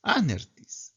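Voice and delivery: anertis whispered, no voice; teacher whispers the word for effect. Shown as a demonstration. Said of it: "Entonces, anertis".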